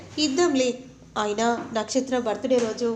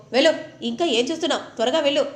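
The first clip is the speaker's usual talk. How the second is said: fast, louder scolding command; brusque order; 3 semitones higher, 5 dB louder, faster than usual. Acted. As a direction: hurry her off, loud and quick. Husband shooing wife away.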